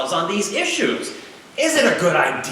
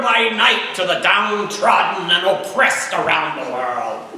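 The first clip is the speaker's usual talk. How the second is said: put-on raised, ringing oratory of an old Senate speech, no accent; senator's oration; 4 semitones higher than usual. Lecturer reading a senator's floor speech, in rousing oratory. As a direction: declaim it to the Senate like a nineteenth-century senator. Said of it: "but try to imagine".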